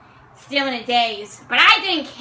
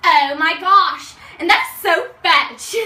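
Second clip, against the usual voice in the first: put-on valley girl; 2 semitones higher, 4 dB louder, slower than usual. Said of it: "started saying things like".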